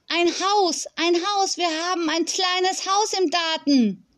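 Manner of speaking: put-on high, thrilled child's calling; excited little girl. A narrator's reading. Small girl discovers a garden house, calling out excitedly. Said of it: "Fee aufgeregt rufen".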